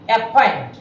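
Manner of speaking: অ্যাপয়েন্ট with a breathy aspirated p. Shown as a demonstration. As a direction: puff of air on the p in অ্যাপয়েন্ট. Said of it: "এই টিকার উপরে একটা stress হয়". (অ্যাপয়েন্টের প-তে হাওয়া দিয়ে বলা)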